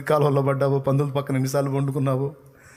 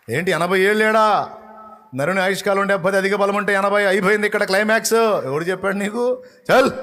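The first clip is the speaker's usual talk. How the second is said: mocking loud challenge; 6 semitones higher, 3 dB louder than usual. Preacher scoffing at the congregation, mocking loud. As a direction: throw the question out mockingly, louder and higher. Preacher mocks the age limit.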